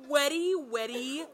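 wetty, wetty stretched out with disgust; drawn-out wetty. Shown as a demonstration. Mocking the lyric to friends, drawn-out disgusted wetty. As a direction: savor each wetty mockingly. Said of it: "But can I just say".

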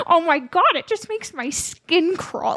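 annoying voice. Pretend. Gushing about hanging out, in a put-on annoying voice. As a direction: overdo the excited squeal, stretching words. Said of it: "turns into a weird accent".

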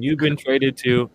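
slow robotic trade-line message; automated voice. Pretend. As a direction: play the automated phone line. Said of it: "The N F L automated trade line".

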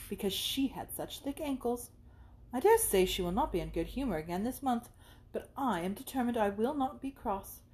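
lightly voiced girlish gossip, some lines slowed; a hint of a fretful young girl complaining; Maria's chatter.

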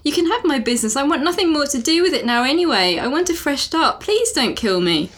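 high, pleading plea to be spared. Acted. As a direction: beg him, your voice lifted and anxious. Nicole begs for life.

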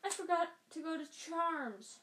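put-on high anxious girl voice; a light squeak of dismay; squeaky. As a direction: stay high and worried. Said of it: "Hermione squeaked".

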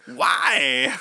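slow, drawn-out weary musing; mock Walken lament. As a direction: savor each word like a tired eccentric. Walken impression, hair lament.

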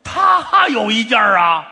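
laughing. Real, not acted. Laughs telling borrowing story.

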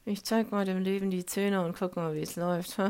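lightly voiced brave-face cheerfulness; a hint of putting on a brave grin; mock upbeat self-talk; defiant cheerful quote.

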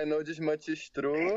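put-on Portuguese with a Latino accent. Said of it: "esse sotaque no meio da tentativa de falar o nome".

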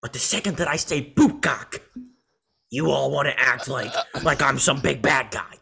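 mock villain monologue with long pauses; halting, theatrical Joker building to indignation. Podcaster as Joker complaining he gets walked over, light impression. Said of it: "my Joker voice is better".

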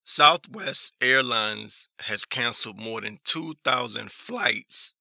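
ordinary talk

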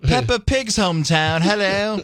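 high, hammed-up English accent; horrible English accent. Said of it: "now the horrible English accent".

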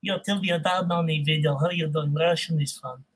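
low, soft Russian-accented voice. Shown as a demonstration. Showing that Russian is fun, low Russian accent. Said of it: "Do some Russian accent".

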